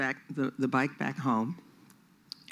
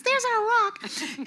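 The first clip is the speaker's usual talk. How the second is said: much higher, slow sing-song parent voice; parent announcing; slower than usual. Retold or imitated. Child retelling how the parent announced the picnic spot, high and slow. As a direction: proudly point out the rock like a parent.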